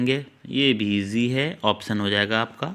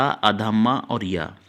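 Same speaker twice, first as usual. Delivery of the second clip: slow spelling; much slower than usual. Shown as a demonstration. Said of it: "तदात्म, ता मतलब बड़ा".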